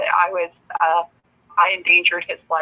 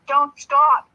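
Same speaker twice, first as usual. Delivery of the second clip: mock yell; 7 semitones higher, 6 dB louder than usual. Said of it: "He goes".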